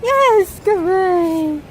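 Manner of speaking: high, loud burst of praise; high excited praise. Real, not acted. Owner praising her dog with a high excited yes. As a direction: cheer him on with a bright yes.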